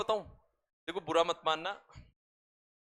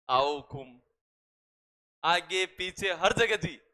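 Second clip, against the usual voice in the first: slow, honeyed mock western Rajasthani welcome; imitating western Rajasthani politeness, slow and sweet; much slower than usual. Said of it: "बड़ी मीठी आवाज होती है आप लोगों की".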